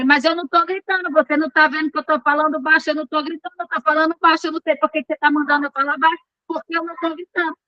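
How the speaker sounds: fast, insistent mock protest; acted agitated denial. Wife insisting to her husband that she isn't yelling, mildly agitated. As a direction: act out a rattled, rapid-fire denial, without shouting. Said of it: "o tom de voz alterou".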